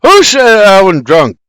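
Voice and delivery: loud, high startled outburst; disoriented blurt. A narrator's reading. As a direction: blurt it out on waking.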